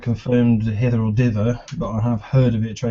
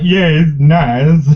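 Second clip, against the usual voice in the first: fake praise; 3 semitones higher, 7 dB louder, much slower than usual. Fake polite verdict on bad juice.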